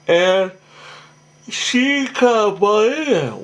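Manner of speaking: slow, high, mumbled words that come out wrong; tired slip. Real, not acted. Recapping the show while too tired to get words right. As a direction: let the words sag and blur from real fatigue. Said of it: "Wow, I must really be tired".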